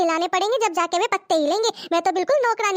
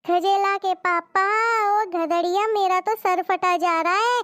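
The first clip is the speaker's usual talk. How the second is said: fake headache moan. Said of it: "इसका फिर से नाटक शुरू हो गया".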